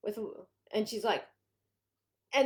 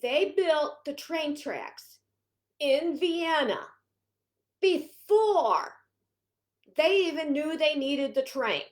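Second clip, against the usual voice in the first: slow gentle quote; 4 semitones higher, 3 dB louder, slower than usual. Retold or imitated. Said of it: "he says to her".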